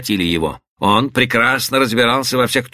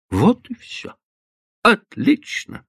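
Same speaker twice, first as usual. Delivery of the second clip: higher, slow mocking echo; mocking repeat; 8 semitones higher, slower than usual. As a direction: repeat her words back with grim irony. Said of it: "повторил Батлер".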